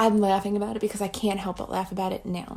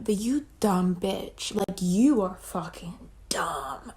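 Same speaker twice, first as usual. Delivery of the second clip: harsh whispered self-rebuke, slow; self-scolding whisper; much slower than usual. Retold or imitated. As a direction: hiss it at yourself in disgust. Berating herself in thought.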